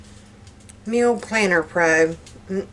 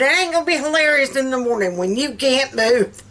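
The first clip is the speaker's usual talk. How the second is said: quick, higher-pitched imitation of a scolding friend; retold warning; 5 semitones higher, faster than usual. Friend warns her about the morning after, scolding. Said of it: "She said".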